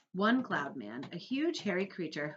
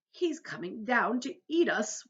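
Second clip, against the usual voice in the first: wailing; 5 semitones higher, 4 dB louder than usual. A narrator's reading. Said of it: "wailed the old green grasshopper".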